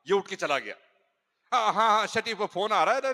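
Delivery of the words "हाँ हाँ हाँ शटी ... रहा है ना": louder, higher, rushing to leave; the husband invents a phone call to escape; hurried excuse. Retold or imitated. (जल्दी में बहाना, ऊँची आवाज़)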